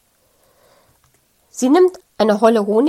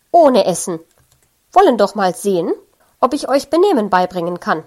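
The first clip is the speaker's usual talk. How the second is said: louder and fast, a strict threat; stern scolding; 5 dB louder, faster than usual. Acted. Nanny denying the parents supper, stern and loud. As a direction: lay down the law, quick and firm.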